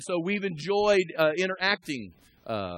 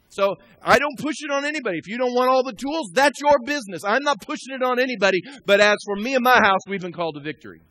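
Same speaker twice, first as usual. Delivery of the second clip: higher, emphatic pulpit delivery; forceful preaching; 5 semitones higher, 5 dB louder than usual. Real, not acted. Pastor saying he won't push it on anybody, forceful preaching. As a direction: declare it firmly to the congregation.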